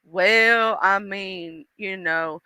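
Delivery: low, quiet, hedging reply; Jesus. Acted. Jesus answering God about her, hesitant. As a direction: trail down softly, reluctant to judge. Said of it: "this is Jesus and God having a conversation".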